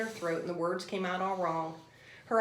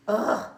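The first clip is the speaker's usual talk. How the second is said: shivering ugh; 6 dB louder than usual. Acted. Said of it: "said the lory with a shiver".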